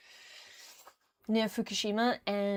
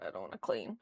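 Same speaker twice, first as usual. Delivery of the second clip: much lower, sulky grumble with a rise on clean; mock grumble; 12 semitones lower, 8 dB quieter, faster than usual. Refusing to clean, a low mock moan.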